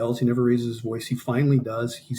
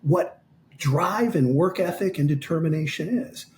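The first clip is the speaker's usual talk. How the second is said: higher-pitched, emphatic retold pep talk; impassioned exhortation; 5 semitones higher than usual. Coach telling fighter to show younger fighters, fervently earnest. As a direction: drive the lesson home with lifted pitch.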